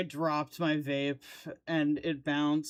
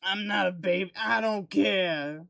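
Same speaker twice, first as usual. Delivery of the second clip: put-on southern accent. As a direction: parrot his words like a Southern good ol' boy. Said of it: "I gave him a southern accent".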